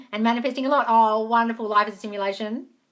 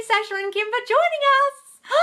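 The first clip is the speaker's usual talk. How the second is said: gushing thanks; 6 dB louder than usual. Real, not acted. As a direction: gush your gratitude. Thanking viewers while signing off.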